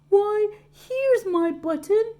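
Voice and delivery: high, loud and slow, delighted; cried out. A narrator's reading. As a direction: cry out in joy at the find. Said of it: "he cried".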